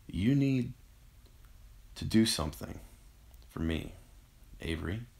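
weak, broken request from a sickbed; coughed out weakly. A narrator's reading. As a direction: labour through it bit by bit. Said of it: "Eric coughed".

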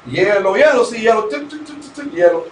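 lightly imitating clinking ice and pouring; vocal sound effects of a champagne pour; playful mimicked radio effects; mock sound effects. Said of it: "Te ponían los efectos de champán".

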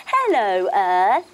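hello to the earth. Pretend. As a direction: greet the ground firmly. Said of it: "we say hello to the earth".

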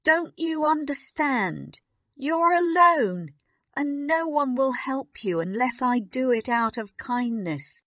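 loud, high-pitched tirade; exasperated scolding at high pitch; angry snapping. A narrator's reading. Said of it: "Miss Minchin snapped".

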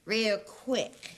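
low, pointed repeat of his words; offended echo. Acted. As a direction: echo it back, affronted.

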